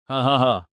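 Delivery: acted ha-ha-ha laugh; mocking laugh. Officer scoffing at the village's weak defences, mocking laugh. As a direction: laugh mockingly in three spoken beats.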